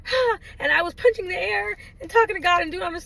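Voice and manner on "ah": high upset "ah", re-enacted; high mock cry of distress. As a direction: imitate a frustrated outburst. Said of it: "I was upset, and I was like".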